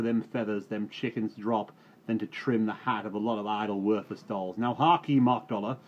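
loud, high scornful farmer; scornful rant. Acted. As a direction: tear into him with contempt. Reuben ranting at farmhand.

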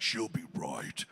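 slow, low Australian accent; Australian-accented demo, slow and low. Shown as a demonstration. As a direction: say it in a laid-back Aussie accent, drawn out. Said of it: "when I do do the Australian accent".

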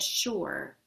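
"sure" said as in seashore; sure like shore. A narrator's reading. Postman echoing the girl's way of speaking, "sure" said like "shore". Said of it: "the same way Hyacinth said".

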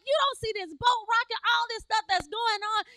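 high-pitched acted complaint; alarmed protest. Disciples on the rocking boat to sleeping Jesus, acted high protest. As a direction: imitate panicked disciples protesting. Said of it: "they're like".

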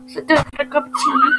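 very high, squeaky voice; squeaky tea-party voice; squeaky character voice. Acted. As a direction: squeak it out like a tiny dainty host. Squeaky put-on voice.

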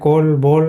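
কল and বল said slowly with an "o" vowel, like "kol, bol"; slow teaching demo of কল, বল with an o sound; o-vowel pronunciation. Shown as a demonstration. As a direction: round the vowel in কল and বল to "o". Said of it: "কিন্তু এটা হবে ও হবে".

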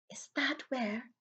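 breathy hushed question; barely voiced, awed; whispered. McGonagall sees the baby's scar, whispering. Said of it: "whispered Professor McGonagall".

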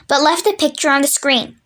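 ordinary delivery, nothing marked

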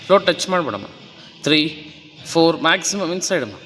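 fitness coach counting. Acted. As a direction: call the reps and push her to keep her hips down. Coach counts plank reps.

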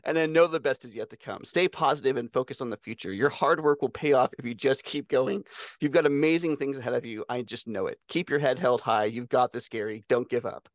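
earnest motivational read; sincere pep talk read aloud. Shown as a demonstration. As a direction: read it like an inspirational card. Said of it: "asked Claude to give my friend Gary a pep talk".

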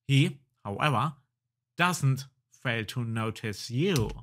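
animated storyteller reading; game story narration. Acted. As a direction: narrate the adventure game text with lively emphasis. Reads game text aloud.

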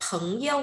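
"phấn yêu" with the tone dropped on "yêu"; toneless second syllable. Shown as a demonstration. Teacher models the word for class, "yêu" in neutral tone. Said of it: "bỏ cái dấu thanh điệu đằng sau".

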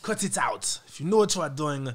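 lightly put-on British accent, scolding; mock British voice telling itself off. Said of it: "That's me talking to my British accent".

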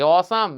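"অসাম" as "o-saam"; wrong pronunciation. Shown as a demonstration. Teacher mocks the error, "অসাম" with full "aa". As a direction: open the end of "অসাম" to "saam". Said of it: "এগুলো বলে তো মান ইজ্জত চলে যাবে".

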